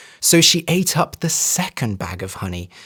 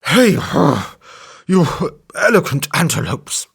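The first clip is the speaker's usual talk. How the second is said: flattering elephant; 3 semitones higher than usual. A narrator's reading. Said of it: "he said".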